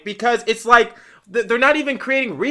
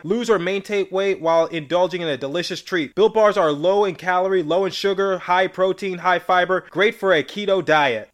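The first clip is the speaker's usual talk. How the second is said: upbeat pitch for a snack bar; ad read; 3 semitones lower than usual. Acted. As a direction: sell the product like a radio spot. Sponsor ad read.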